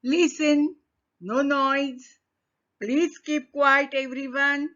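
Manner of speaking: firm acted teacher demanding no noise; teacher quieting the class. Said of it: "Now teacher in another class".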